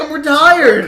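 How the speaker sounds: shouted. Acted. Repeats claim shouting.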